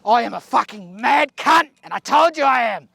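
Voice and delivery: high, excited bragging; pumped boast after landing the shot; triumphant boast. Real, not acted. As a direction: crow about it gleefully.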